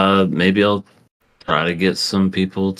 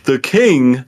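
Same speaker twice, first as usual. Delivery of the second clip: sleazy salesman; 9 semitones higher, 5 dB louder, slower than usual. Pretend. Hammed-up pitch to a guest.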